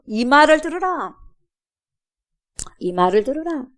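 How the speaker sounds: booming divine proclamation; God proclaiming. Acted. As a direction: thunder it down from on high. God's voice proclaiming.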